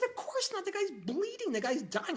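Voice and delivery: shrill, very high outburst of disbelief; panicked retort to the calm doctor; exasperated panic. Retold or imitated. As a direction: fling it back in alarm.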